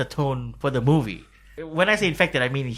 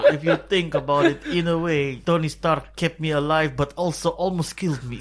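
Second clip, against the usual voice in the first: put-on Russian accent; 2 semitones higher than usual. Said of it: "now say that again in Russian accent".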